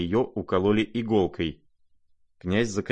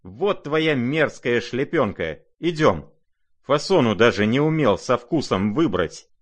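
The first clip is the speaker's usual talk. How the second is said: higher, loud, disdainful; scornful jab; 5 semitones higher, 4 dB louder than usual. Acted. Lizaveta mocking the prince's hat, scornful and loud. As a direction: sneer at the ugly hat.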